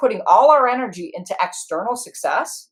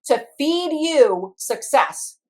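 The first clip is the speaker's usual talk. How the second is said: mock outrage; 4 semitones higher, 3 dB louder, much slower than usual. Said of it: "my managers just about have a stroke".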